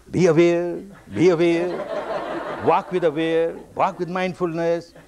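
measured, repeated instruction in even tones; teacher's admonition. Retold or imitated. Teacher keeps on teaching students, mock insistent chant. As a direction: imitate a teacher drilling his pupils. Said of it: "I keep on teaching them".

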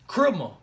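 "Criminal" slurred to "crimmo"; imitated Florida "Criminal", ending in a rounded vowel; Florida pronunciation. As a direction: say "Criminal" with the last syllable swallowed. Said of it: "how do you spell that?".

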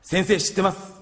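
holding back tears. Acted. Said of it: "涙をこらえながら".

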